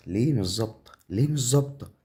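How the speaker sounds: rising exasperated protest; worked-up, insistent questioning. Real, not acted. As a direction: demand an answer, pitch climbing. Repeated complaint as game fails him.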